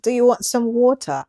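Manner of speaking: water said the American way, "wɔtə"; American accent. Shown as a demonstration. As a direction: answer in a plain American accent.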